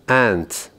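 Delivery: انت آمریکایی و شمرده; American pronunciation. Shown as a demonstration.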